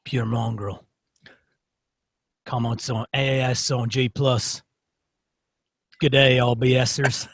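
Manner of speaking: lightly hammed-up Australian accent; bad Australian accent. Podcast host teasing his co-host with a bad Australian accent. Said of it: "in really bad accents".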